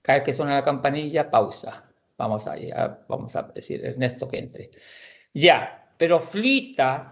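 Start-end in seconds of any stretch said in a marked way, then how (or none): 6.0-7.1 flita said slowly; Norwegian word demo. Shown as a demonstration. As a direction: flita with a long stretched i. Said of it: "que es flotar".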